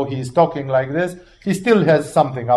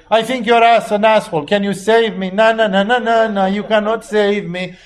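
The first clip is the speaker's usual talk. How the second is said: mock provoking thief; 4 semitones higher than usual. Preacher mimicking a rude thief on the cross, higher taunting jeer. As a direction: jeer at him like a cheeky crook.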